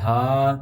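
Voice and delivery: ہا sounded from the chest; chest-produced ہا. Shown as a demonstration. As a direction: open held ہا from the chest. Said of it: "یہ ہا سینے کی طرف سے ادا ہوگا".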